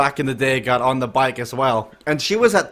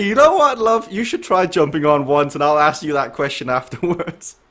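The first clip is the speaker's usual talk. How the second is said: mock comeback to wife; 2 semitones higher than usual. Host playing a husband's comeback to his wife, teasing.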